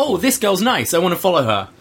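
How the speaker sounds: lightly voiced playful droid. Cohost voicing BB-8 taking to Rey, lightly playful. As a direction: lightly play a childlike little droid, voice lifted. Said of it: "B B eight's just, More playful".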